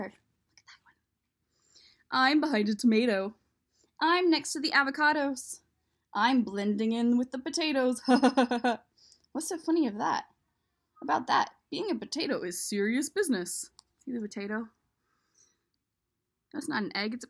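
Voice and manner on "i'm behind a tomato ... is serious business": louder, bouncy little voices; playful eggs. Acted. The hiding eggs announcing their spots, louder and playful. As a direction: call out each hiding spot proudly.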